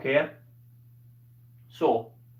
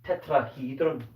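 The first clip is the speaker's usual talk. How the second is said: Scottish accent; 2 semitones lower than usual. Shown as a demonstration. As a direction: say Tetrahedron with a rolled Scottish r. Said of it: "This one brings out my Scottish accent".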